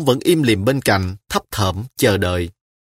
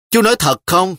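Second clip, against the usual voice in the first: put-on lightly higher little girl's challenge; a hint of a child's disbelief; doubting child; 8 semitones higher, 3 dB louder than usual. A narrator's reading. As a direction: question him like a suspicious child.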